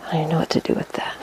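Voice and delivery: quick, hushed aside to yourself; muttering to self. Real, not acted. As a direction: mutter it fast under your breath. Talking to self amid the mess.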